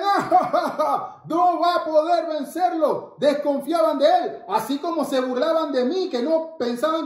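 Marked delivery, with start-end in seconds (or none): 0.0-3.2 mocking laugh. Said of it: "Los soldados se reían".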